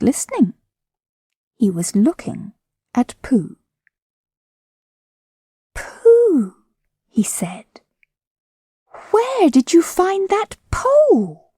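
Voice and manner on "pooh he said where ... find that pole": put-on higher, slow amazed boy; lightly voiced boy. A narrator's reading. Christopher Robin amazed at Pooh's pole. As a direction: ask in wonder.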